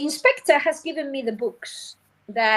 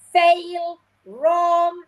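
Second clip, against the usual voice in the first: mock harsh verdict; 5 semitones higher, 3 dB louder than usual. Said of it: "you tell them".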